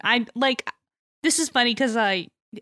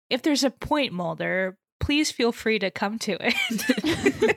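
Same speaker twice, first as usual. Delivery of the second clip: bitchy; slower than usual. Retold or imitated. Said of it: "bitchy retelling of the events".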